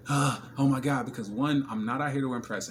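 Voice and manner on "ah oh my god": louder, breathy starstruck "oh my God"; mock flustered gush. Him mocking a starstruck guy. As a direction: act dazzled by a pretty woman. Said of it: "I don't find myself in that state of".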